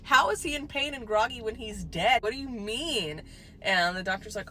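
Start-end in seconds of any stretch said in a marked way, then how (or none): 0.0-3.2 much higher and louder, slow and stretched; family blurting out in total confusion; shocked outburst. Retold or imitated. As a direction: yell it in stunned disbelief. Family hears he's in pain.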